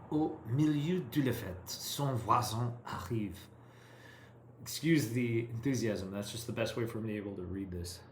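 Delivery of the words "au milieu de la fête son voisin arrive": enthusiastic attempt at a French accent. Shown as a demonstration. Learner reading the story to her tutor in an eager attempted French accent. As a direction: read it like a keen student putting on French. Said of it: "with an accent or an attempted accent".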